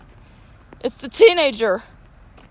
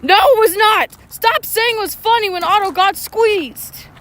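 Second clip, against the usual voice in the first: loud, high, insistent denial; indignant protest; 5 semitones higher, 3 dB louder than usual. Real, not acted. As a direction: shout down the teasing. Arguing with off-mic listener.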